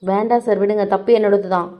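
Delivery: soft pleading. Acted. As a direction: take the blame in a hushed, humble voice. Girl takes blame, pleads softly. (சண்டை வேண்டாம் என்று மெல்லிய குரலில் கெஞ்சல்)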